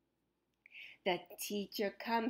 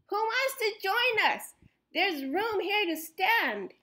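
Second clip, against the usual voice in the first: excited; 6 semitones higher, 3 dB louder than usual. A narrator's reading. Child inviting everyone.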